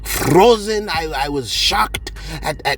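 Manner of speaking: slow, halting shocked account; slow, stammering, still shaken; imitating Garcia. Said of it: "that's what Garcia said".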